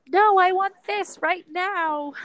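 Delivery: pouty mock demand for the picket fence now; mock bratty demand. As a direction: whine that she wants it now, half joking. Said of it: "And I'm just like".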